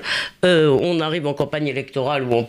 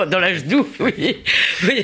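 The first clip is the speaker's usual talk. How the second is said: ironie amusée; 4 semitones higher than usual. Real, not acted. Reprend la formule, ironique, en riant.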